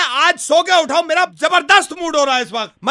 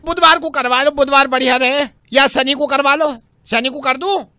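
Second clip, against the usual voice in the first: Angelica; 3 semitones lower than usual. Acted. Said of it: "Angelica's coming".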